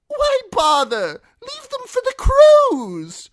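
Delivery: high, slow mocking fool; jester voice. The fool refusing Timion, high and mocking. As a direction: toss it back like a cackling jester.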